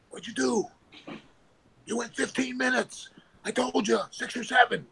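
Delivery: high-pitched indignant boss, imitated; retold scolding. Chief scolds him after match.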